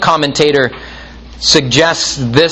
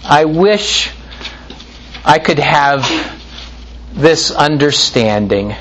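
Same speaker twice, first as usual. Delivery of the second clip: sighing moaner. Retold or imitated. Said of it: "they sigh and they moan more".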